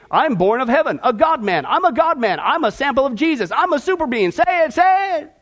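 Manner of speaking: imitated preacher egging on a crowd, pitch climbing; Benny Hinn. Preacher mimics a teacher making listeners repeat, hammed-up urging. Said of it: "Benny Hinn said".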